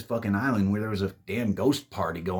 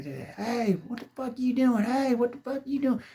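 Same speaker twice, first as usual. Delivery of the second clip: high, yelling across the room; alarmed yell from the back; shouted challenge. Retold or imitated. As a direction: call out sharply to the guy dragging him. Stranger yelling at mummy grab.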